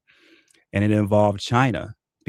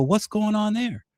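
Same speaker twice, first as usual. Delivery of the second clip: high, put-on incredulous voice, much higher; baffled disbelief; 11 semitones higher than usual. Watching rivals turn conservative, high baffled disbelief. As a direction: squeak it out like you can't believe your eyes. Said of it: "And I go".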